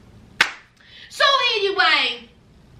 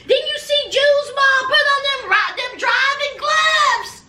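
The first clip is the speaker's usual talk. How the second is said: excited teasing; 10 semitones higher than usual. Real, not acted. Teasing June's mom about her driving gloves. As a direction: call out in mock disbelief.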